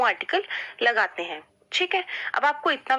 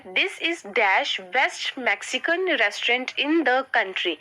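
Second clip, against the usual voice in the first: slow dictation; much slower than usual. Shown as a demonstration. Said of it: "reading exercise sentence slowly".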